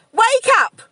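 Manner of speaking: urgent high-pitched shouting, very loud; stressful, horror-film wake-up call; English nurse. Acted. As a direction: yell it like a nurse reviving a patient. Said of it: "it's the English nurse in Trainspotting".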